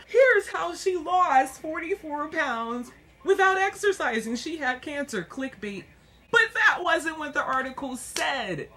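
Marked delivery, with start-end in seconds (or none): 0.1-5.2 higher, louder sneering headline voice; mock the magazine's callous pitch; mocking nasty headline. Vlogger mocking a Cosmo headline, sneering. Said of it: "nasty Cosmo saying".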